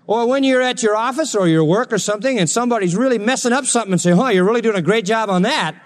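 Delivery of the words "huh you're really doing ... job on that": mock praise, pitched up; sarcastic. To a coworker who messed up, sarcastic. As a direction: praise it while meaning the opposite. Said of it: "That's sarcasm".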